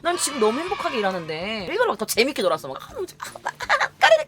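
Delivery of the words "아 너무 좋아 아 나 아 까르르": high, breathy giggly delight; mock giggling glee. Having fun on purpose in front of her, high giggly glee. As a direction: show off how much fun you're having. Playing extra happily on purpose.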